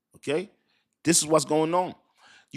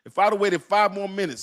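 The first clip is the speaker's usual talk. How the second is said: excited; 7 semitones higher, 3 dB louder than usual. Real, not acted. Telling viewers the Solana buy.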